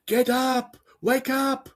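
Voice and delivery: imitating impatient kids; high-pitched mock teenager. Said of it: "the kids are like".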